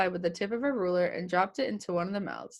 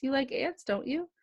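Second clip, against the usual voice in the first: put-on a lightly raised, cooing baby-talk voice; girl coaxing her plant with a new ant, in mild baby talk; squeaky baby voice; 5 semitones higher than usual. A narrator's reading. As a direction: coo at the plant like it's a baby. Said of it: "in her best squeaky baby voice".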